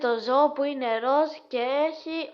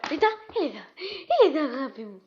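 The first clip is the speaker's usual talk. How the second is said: high, affectionate call to a pet; calling the dog; 4 semitones higher, much faster than usual. Real, not acted. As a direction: coax the dog over sweetly. Calls the pet dog over. (τρυφερό κάλεσμα στο σκυλί)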